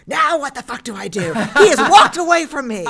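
high, loud, laughing mock outrage; laughing mock panic. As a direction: ham up the helpless panicked parent. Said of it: "texting Steve".

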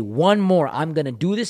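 forceful, fired-up resolve; pushing through. Acted. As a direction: psych yourself up for the last rep.

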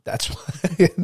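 high, plummy British voice; lightly put-on British accent; mock British accent. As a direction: say it like a polite Brit. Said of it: "Big Voice is British".

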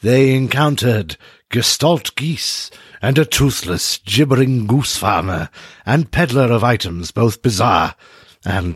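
measured storyteller recap of last session; story recap narration. Acted. Game master recaps the story for the players, in a measured narrator voice. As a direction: read the recap like a serial narrator.

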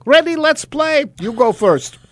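high, bright and eager. Acted. Herschel baiting the goblin, high and eager. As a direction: lure him into the game.

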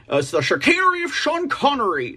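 a lazy stab at a Scottish Sean Connery accent; admittedly weak Sean Connery accent attempt. Shown as a demonstration. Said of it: "do a Sean Connery, uh, accent".

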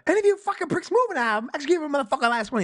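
Pumpkin's yelled hold-up line, hammed up; quoting a robber's threat. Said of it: "the kick in right off the".

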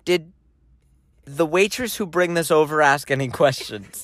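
retold deadpan question in a monotone. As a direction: ask it evenly, giving nothing away. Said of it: "I said that in a monotone tone".

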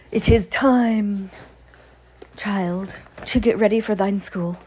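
put-on slow, high, old-fashioned witch voice; mock witch. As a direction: play the witch waking the child. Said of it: "mock witch voice to child".

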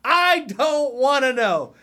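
slow, high, drawn-out I don't wanna know; weary plea. Real, not acted. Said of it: "exasperated declaration".

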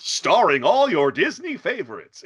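epic movie trailer announcer; dramatic voiceover narration. Retold or imitated. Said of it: "continuous trailer narration".

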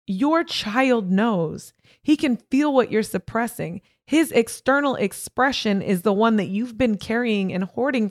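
retold verdict, each point driven home; therapist's emphatic confrontation. Therapist telling her client what the child feels, emphatic.

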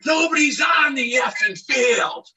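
half-woken man yells at the crew from the dugout; angry shout. Retold or imitated. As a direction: yell it out in disbelief. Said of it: "And I go".

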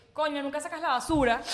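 blunt reproach. Shown as a demonstration. Showing the wrong way to raise the trash, blunt reproach. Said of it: "en vez de decir".

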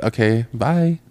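dismissive. Retold or imitated. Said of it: "that feeling of".

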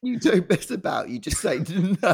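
ribbing a friend about his bluntness; teasing emphasis. Real, not acted. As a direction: drag it out, poking fun. Teasing Nate's blunt refusals.

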